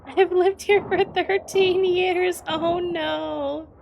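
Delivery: high, drawn-out wail of dismay; big, high-pitched lament; loud dismay. Real, not acted. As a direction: cry out slowly and loudly in embarrassed disbelief. Dismay at failing the local accent.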